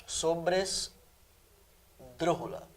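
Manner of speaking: very slow and quiet, broken by a long pause; syllable by syllable. Shown as a demonstration. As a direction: draw out SOBRESDRÚJULA in separated chunks, softly. Teacher breaks word into syllables.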